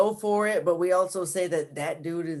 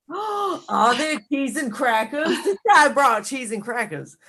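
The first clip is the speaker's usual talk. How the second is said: excited gasp; 6 semitones higher than usual. Pretend. Excited gasp over snacks.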